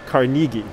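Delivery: Carnegie with "nee" in the middle, "car-NEE-gie"; long ee in the middle of Carnegie; alternative original pronunciation. Shown as a demonstration. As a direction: say Carnegie as kar-NEE-ghee. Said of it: "how he would have pronounced his name".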